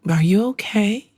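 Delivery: patronizing preschool-teacher voice; mock-gentle voice for a tantruming child; like talking to a five-year-old. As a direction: talk down as if to a toddler. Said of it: "talk to them like they are five years old".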